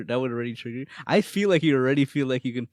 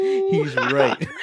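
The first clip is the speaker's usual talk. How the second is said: loud, hammed-up shout with laughter; mock shouted replay; 3 semitones higher, 6 dB louder than usual. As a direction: blow up the boy's line for laughs. Exaggerated replay of crying son's line.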